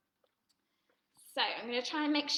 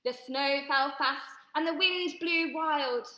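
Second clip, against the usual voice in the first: slow story narration; 3 dB louder, slower than usual. A narrator's reading. Storytelling refrain.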